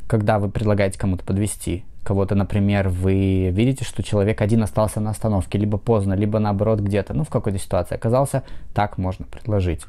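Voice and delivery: ordinary talk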